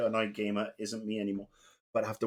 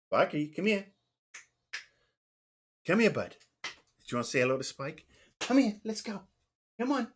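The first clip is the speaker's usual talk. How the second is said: higher, sing-song voice coaxing a little dog; pet talk; 5 semitones higher than usual. Real, not acted. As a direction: coo at your puppy to come over. Coaxing his little dog over.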